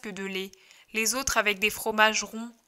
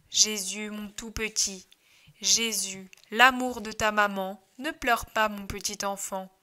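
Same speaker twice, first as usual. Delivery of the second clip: tender mother. Acted. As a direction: hush a crying newborn. Mother soothes crying baby.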